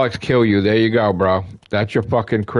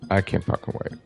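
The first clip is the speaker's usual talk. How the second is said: whisper; 7 dB quieter, faster than usual. Real, not acted. Whispered excitement.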